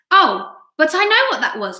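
high, eager outburst; animated storybook exclamation; excited cry. A narrator's reading. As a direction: jump in with a high-pitched boyish cry of recognition. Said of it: "cried James".

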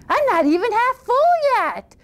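put-on high, cocky boy; boasting boy. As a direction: brag you're still hungry.

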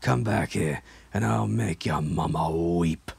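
flat, muttered rasping threat; dry monotone threat. Acted. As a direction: threaten dryly, without emotion. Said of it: "muttered in the monotone".

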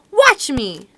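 high, loud mouse battle cry; mouse shouting. Acted. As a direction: shout it bravely as a tiny mouse.

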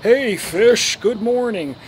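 high, loud sing-song greeting; mocking a smug YouTuber. Mocking the fish channel guy, sing-song greeting. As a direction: put on a smarmy host's voice. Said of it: "The guy refers to his subscribers as fish".

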